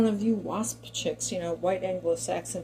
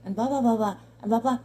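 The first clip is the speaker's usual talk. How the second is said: put-on Valley Girl chatter; 4 semitones higher, 6 dB louder, faster than usual. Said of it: "I can speak really quickly".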